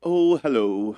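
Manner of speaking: put-on posh English accent. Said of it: "What's your best U K accent".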